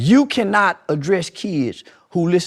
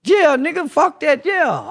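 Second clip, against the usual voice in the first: street talk demo; 7 semitones higher, 6 dB louder, slower than usual. Shown as a demonstration. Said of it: "I talk like that 'cause that's where we come from".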